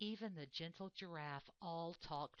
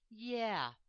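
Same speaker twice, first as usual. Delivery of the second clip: a high, louder little yeah; piping up; 5 semitones higher, 7 dB louder than usual. Acted. Warthog pipes up from behind the buffalo, high. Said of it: "piped up the warthog".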